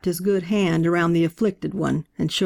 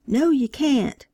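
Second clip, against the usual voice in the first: yelled; 7 semitones higher, slower than usual. A narrator's reading. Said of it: "a woman yelled".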